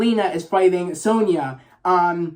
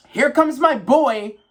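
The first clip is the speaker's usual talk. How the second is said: slow, higher, louder announcer-style call; hype entrance call; 7 semitones higher, 4 dB louder, slower than usual. Retold or imitated. Hyping his favourite fighter's entrance, a slow higher announcer call. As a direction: drag it out like a ring announcer.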